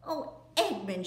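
a touch of happy surprise; Lucy greeting her brother gladly; cried out. Acted. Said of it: "she cried".

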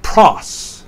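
"pros" with a stressed "o"; "pros" as one emphatic syllable; emphasis on omicron. Shown as a demonstration. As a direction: lean on the vowel of "pros". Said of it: "emphasis on the omicron".

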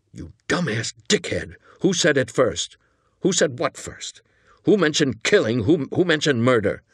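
mildly exasperated grilling, pitch climbing on the questions; angry interrogation. Acted. Angry partner interrogating his blundering accomplice.

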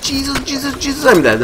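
high, breathless panic; panicked. Real, not acted. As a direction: babble it as death closes in. Mutants attacking him in game.

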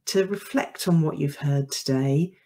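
measured, unhurried sign-off narration; podcast outro read. Acted. Host thanking listeners and inviting reflection, measured outro read. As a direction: deliver a scripted outro, phrase by phrase.

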